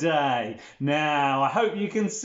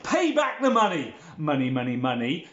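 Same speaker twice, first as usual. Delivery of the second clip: demanding creditor; 2 semitones lower than usual. Acted. First servant to the servant who owes him, mock demanding. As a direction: demand repayment theatrically.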